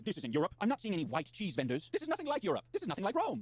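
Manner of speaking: rising indignant mock tourist; mocking the vlogger. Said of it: "And he's saying".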